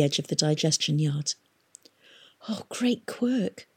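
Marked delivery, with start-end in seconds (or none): 2.5-3.7 slow, soft whisper. A narrator's reading. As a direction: breathe it out in horror. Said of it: "Tom whispered".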